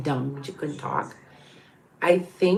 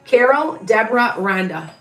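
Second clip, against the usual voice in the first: calling out names; 2 semitones higher, 5 dB louder than usual. Real, not acted.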